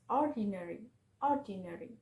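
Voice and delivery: "ordinary" with the first syllable stressed; emphasize the opening syllable of "ordinary"; "ordinary", weight on the first syllable. Shown as a demonstration. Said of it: "with the stress on the first syllable".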